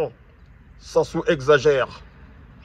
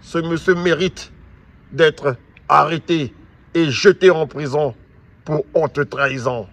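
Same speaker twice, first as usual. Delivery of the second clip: angry. Real, not acted. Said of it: "Je suis en colère".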